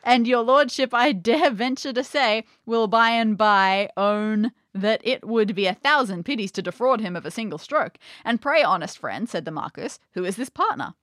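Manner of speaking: theatrical storybook reading with voiced dialogue; story narration. A narrator's reading. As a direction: act out the old tale's dialogue lightly.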